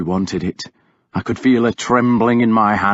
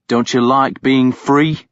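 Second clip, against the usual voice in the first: harsh; 3 semitones higher than usual. Acted. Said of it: "I asked her harshly".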